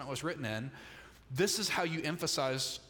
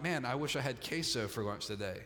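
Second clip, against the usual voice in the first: low, mild hankering for queso; casual wish; 4 semitones lower than usual. Acted. Preacher acting someone who sort of wants lunch, casual wish. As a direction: wish for it offhandedly, pitched low. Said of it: "if you sort of wanted queso".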